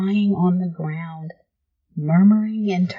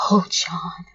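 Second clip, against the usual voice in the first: shaking whisper. Acted. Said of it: "whisper in a shaking voice".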